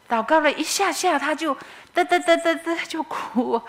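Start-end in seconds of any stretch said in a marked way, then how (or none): 1.2-3.6 high, slow stuttering sob sounds; imitated sobbing. Telling how sister-in-law burst into tears, imitated sob sounds. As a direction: mimic her breaking into sobs.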